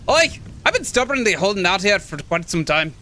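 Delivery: rough attempt at a Scottish old man; shaky grasp of a Scottish accent. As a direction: play the old hermit with an amateur Scottish accent. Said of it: "he's probably more Scottish, right?".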